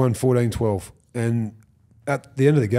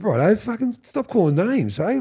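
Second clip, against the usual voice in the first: mild angry retort; 9 semitones higher than usual. Retold or imitated. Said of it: "I got a little bit angry".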